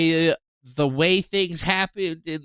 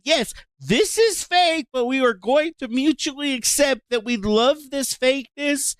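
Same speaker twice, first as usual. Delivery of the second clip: mock agreeable crowd; 6 semitones higher than usual. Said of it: "everybody agreed".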